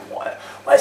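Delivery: breathy self-satisfied ouais; lazy confident yeah, yeah; smug know-it-all; cocky guy. Shown as a demonstration. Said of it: "c'est le mec sûr de lui".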